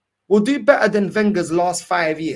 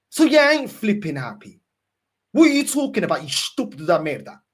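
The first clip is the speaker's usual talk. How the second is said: angry shout; 2 semitones higher, 3 dB louder than usual. Real, not acted. Fan yelling at the manager, exasperated and loud. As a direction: let the frustration burst out.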